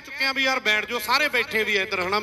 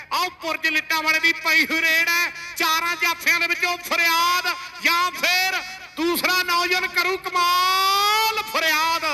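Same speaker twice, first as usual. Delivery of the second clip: higher, rising live raid call; excited play-by-play; 5 semitones higher than usual. Acted. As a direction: build the hype through the raid.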